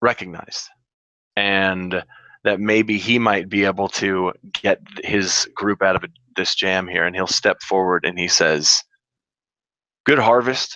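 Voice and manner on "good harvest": barely above a mutter, almost under breath, higher. Greeting someone in character with a customary welcome: almost under his breath. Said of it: "Just almost under his breath".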